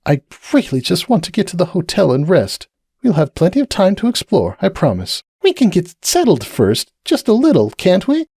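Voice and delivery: high, gentle pleading mare; a tired mare asking to rest first; Cupcake pleading. Acted.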